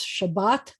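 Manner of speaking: Shabbat with the weight on BAT; stress on second syllable. Shown as a demonstration. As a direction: land firmly on the end of Shabbat. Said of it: "the accent's on the second syllable".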